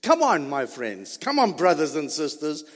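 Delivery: a donkey gently calling its friends; talking donkey. Retold or imitated. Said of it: "Now the donkey is speaking".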